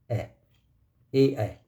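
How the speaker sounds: ए held as a clear open e vowel; teacher sounding out ए slowly; drawn-out e sound. Shown as a demonstration. Teacher to students, modelling the ए vowel. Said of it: "ए का sound होता है".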